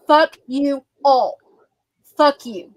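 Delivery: real heated, emphatic telling-off; fed up and forceful; getting loud. Real, not acted. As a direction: hit each word firmly, a bit loud. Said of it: "I'm getting loud".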